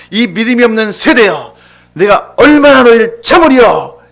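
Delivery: angry outburst, high and loud; 화난 예수님. Acted. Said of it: "갑자기 막 화를 내시면서". (갑자기 버럭 화내는 높고 큰 목소리)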